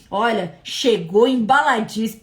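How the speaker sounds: slow, drawn-out mock testimonial; imitated online reviewer. Preacher imitating shopper reviews, slow mock testimonial. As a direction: play a satisfied shopper, lightly. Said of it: "igual o povo da Shopee".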